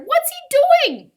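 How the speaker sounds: high, loud, drawn-out cry; panicked full-voiced shriek. A narrator's reading. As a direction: scream it in slow disbelief. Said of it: "His mother cried".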